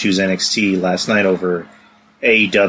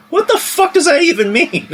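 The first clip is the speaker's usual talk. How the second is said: imitated outburst. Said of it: "just going".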